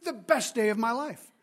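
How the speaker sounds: exultant, punchy cry of triumph; elated worker. Acted. Worker celebrating the best day of his life, elated. Acting out the overpaid worker's joy.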